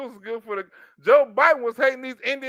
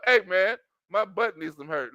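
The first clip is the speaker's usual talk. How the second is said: mock pickup line; 4 semitones lower, 4 dB quieter than usual. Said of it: "Don Lemon pickup line in the club".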